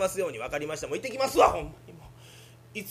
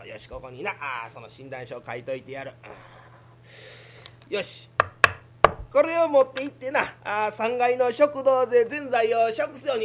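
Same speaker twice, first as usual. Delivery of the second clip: put-on old doctor; 5 dB louder than usual. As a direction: play a fussy old country doctor. Doctor voice again.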